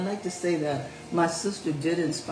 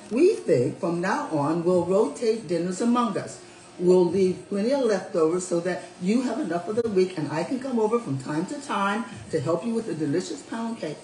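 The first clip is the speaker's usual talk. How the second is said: proper tone; 5 semitones higher than usual. Acted. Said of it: "in that proper tone that parents hate".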